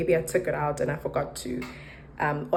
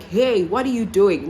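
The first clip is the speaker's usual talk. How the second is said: mild mock shout, a touch higher; retold shout; 4 semitones higher, 4 dB louder than usual. Confronting someone at her door, retold mild shout. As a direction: call out sharply at an intruder, lightly acted. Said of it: "So I shout at the person".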